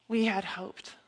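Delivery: subdued lament. Acted. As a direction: let "We had hoped" sink, quietly. Repeats the lament softly.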